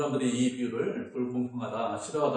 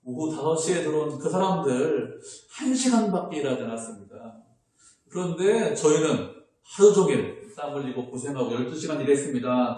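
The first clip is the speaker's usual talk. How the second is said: louder, indignant complaint to the master; aggrieved protest; 2 semitones higher, 5 dB louder than usual. Retold or imitated. Early workers protesting to the master, louder and indignant. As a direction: argue your unfair pay, voice raised. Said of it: "주인에게 무엇이라고 합니까".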